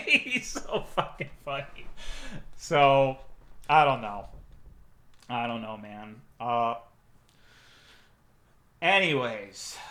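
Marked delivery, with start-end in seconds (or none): 0.0-4.3 laughing. Real, not acted. Laughs about the director.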